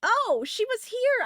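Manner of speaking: high, slow surprised exclamation; suddenly notice her there. Real, not acted. Player spotting the girl in the game, surprised high exclamation.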